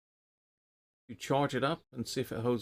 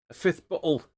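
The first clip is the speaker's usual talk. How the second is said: higher and louder, delighted at the gift; excited; 7 semitones higher, 8 dB louder than usual. Real, not acted. Reading a viewer's gift out on stream, excited and loud. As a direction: announce the fifth bottle with glee.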